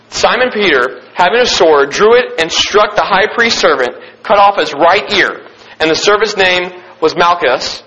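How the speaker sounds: measured, formal Bible reading voice; scripture reading. Acted. Pastor reading scripture to his youth group, in a measured reverent reading voice. Pastor reads John aloud.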